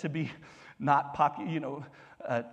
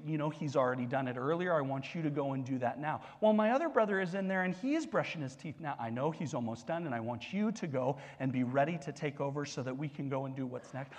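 patient dad; 4 semitones lower, 5 dB quieter, faster than usual. Retold or imitated. Dad voicing himself to son.

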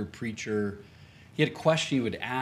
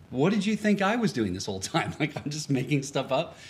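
retold affront, a touch incredulous; mildly offended; 2 semitones higher than usual. Preacher retelling his reaction to his friend, mildly offended. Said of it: "I'm a little offended".

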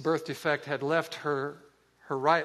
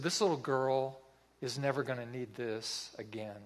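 quiet, slightly lowered, unforced calm; 3 semitones lower, 6 dB quieter than usual. Retold or imitated. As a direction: retell it softly in a composed, calm tone. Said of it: "he said in a very calm tone".

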